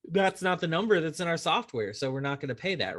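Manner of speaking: lightly hammed-up corporate refusal; mock insurance adjuster. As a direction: play the smug insurer brushing off the contractor. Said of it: "they're like".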